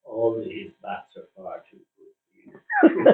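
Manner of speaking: put-on slow, broad Yorkshire accent; a light touch of blunt Yorkshire accent; Len Hutton Yorkshire accent. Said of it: "in his broad Yorkshire accent".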